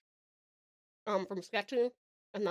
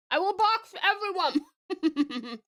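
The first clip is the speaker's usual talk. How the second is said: grand declaration; 7 semitones higher, much slower than usual. Acted.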